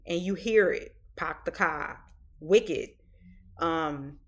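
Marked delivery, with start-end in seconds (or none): 1.2-2.9 light Boston accent, dropped R. Shown as a demonstration. Host showing how Boston sounds in movies, light Boston accent. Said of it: "nobody's accent is heavier than somebody living in Boston".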